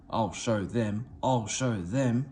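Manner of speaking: slow, muttered threat; a sulky engine plotting, lightly menacing; hissed. A narrator's reading. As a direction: promise revenge under your breath. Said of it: "he hissed".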